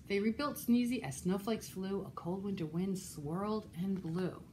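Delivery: put-on lively, rhythmic read-aloud for children; animated storytime reading; picture-book narration. A narrator's reading. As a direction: read a rhyming story to little listeners.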